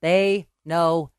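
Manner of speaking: slow words fading into a whisper; playfully conspiratorial, whispered ending; mock-ominous whisper. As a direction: let the last word vanish into a whisper. Mock-ominous repeat of the warning.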